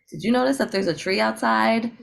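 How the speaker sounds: lightly voiced eager mentor; acted enthusiasm. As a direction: share a small wonder with a child. Imagined mentor enthusing to a child.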